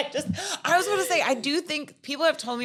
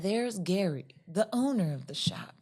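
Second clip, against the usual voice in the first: softer, lightly imitated soothing narrator; sleepcast guide; 4 dB quieter than usual. Fan imitating the guide through the antique shop, lightly soothing. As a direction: gently guide the listener along, imitating a sleep story. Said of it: "this guy guiding you through this antique shop".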